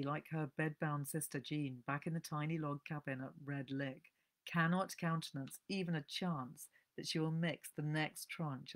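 measured, evocative audiobook narration; story reading. A narrator's reading. Host reading a novel's opening to her listeners, narrating. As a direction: draw listeners into the snowy forest.

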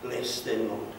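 earnest pastoral prayer, swelling then settling; fervent prayer. Acted. Pastor praying over the people at the altar, fervent. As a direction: pray over them with rising fervour.

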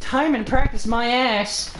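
loud, high, slow exasperation; loud mocking disbelief; scornful outburst. Real, not acted. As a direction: throw the phrase back in frustration. Scornfully throws own words back.

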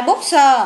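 "bookser" with a separate "sờ" on the end; added s sounded. Shown as a demonstration. Teacher reviewing the first case, s sounded out. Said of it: "trường hợp một này".

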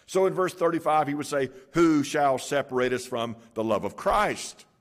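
preaching at full force. Acted. Preacher proclaiming scripture to the congregation, full force. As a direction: proclaim each line to the congregation. Preacher reads Romans aloud.

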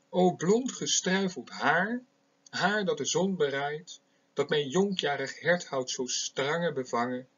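measured poetic reading; poem recitation. Shown as a demonstration. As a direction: recite it like a lover's sonnet. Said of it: "Eén zo'n gedicht wil ik hier voorlezen".

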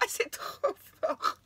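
slow, breathless, teary laugh; barely getting words out through laughing tears; tearful laughter. Real, not acted. Seeing the Jack Black card, laughing through tears. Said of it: "jamais ri et pleuré en même temps".

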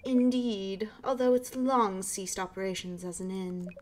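a hint of a proper British neighbor; posh British. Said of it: "like, a posh British voice".

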